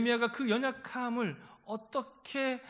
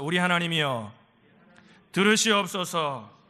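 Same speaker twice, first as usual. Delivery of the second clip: firm, louder line for the congregation to echo; call-and-repeat prayer line, drawn out at the end; lead for repeating; 3 semitones lower, 6 dB louder than usual. Shown as a demonstration. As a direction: give out the prayer phrase slowly and firmly. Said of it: "따라합시다".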